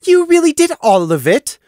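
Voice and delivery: high, loud doubting; can't believe it's done; suspicious disbelief. A narrator's reading. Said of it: "looking suspiciously".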